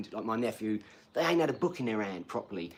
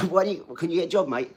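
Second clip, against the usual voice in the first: Ross Kemp; 6 semitones higher, 8 dB louder, faster than usual. Retold or imitated. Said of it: "have you seen the Ross Kemp interview".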